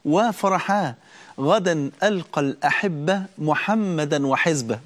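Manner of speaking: slow, smiling joy; mild smiling calm at death; joyful at death. Retold or imitated. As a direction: say it gently, glad to meet the beloved. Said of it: "وهو يبتسم عند الموت".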